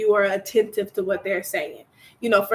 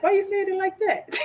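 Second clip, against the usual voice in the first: defensive retort; 9 semitones higher than usual. Retold or imitated. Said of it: "It was like".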